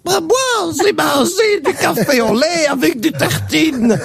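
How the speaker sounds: lightly voiced shy child. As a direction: answer innocently like a small pupil. Child answers teacher.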